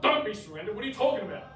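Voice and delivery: retold friend. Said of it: "and he's like".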